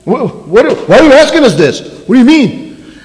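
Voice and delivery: lightly played puzzlement; a touch of bewildered disciple; mock confusion.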